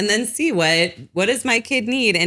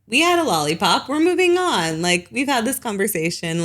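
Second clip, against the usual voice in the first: a hint of a firm no-nonsense parent; brisk, lightly firm wrap-up to a child; mild strict parent; 5 semitones higher than usual. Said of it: "if you need to be stricter".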